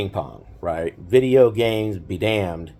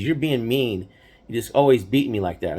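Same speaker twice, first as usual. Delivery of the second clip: put-on whiny kid brother. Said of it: "he would get so mad".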